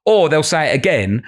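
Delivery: normal talking voice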